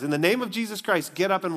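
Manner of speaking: clear, firm proclamation in full voice; bold command. Acted. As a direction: declare it like Peter finally commanding the lame man. So Peter does.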